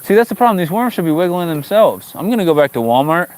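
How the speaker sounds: high, playful complaining; mock outrage. Real, not acted. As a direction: ham up the grievance about the worms. Mock outrage over worms.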